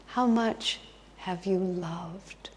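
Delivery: slow, near-whispered question; hushed and solemn, stretched out; Jesus asking gently. Retold or imitated. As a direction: ask it softly and very slowly, word by word. Jesus asks the dying man.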